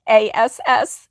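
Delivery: "A S S" said in place of Alice; child's mispronunciation. Retold or imitated. Grandma repeats wee ones' name for her, amused mispronunciation. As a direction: say "A S S" like a toddler's slip for Alice. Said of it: "pronounce her name".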